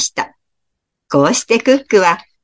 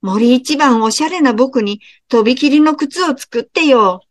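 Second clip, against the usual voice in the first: vain fox; 5 semitones higher than usual. Acted. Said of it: "キツネも言いました".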